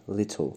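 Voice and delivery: لیتل with a very short i sound after the t; little with a tiny i. Shown as a demonstration. Teacher showing student to say لیتل lightly. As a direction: say لیتل as lit-l, barely an i. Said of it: "یه ای خیلی کوچیکی بعد از ت شنیده بشه".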